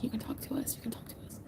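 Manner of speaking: soft unvoiced whisper; whispered quote. Streamer quoting her chat's kind words in a whisper. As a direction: whisper their reassurance back. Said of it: "They've said numerous times".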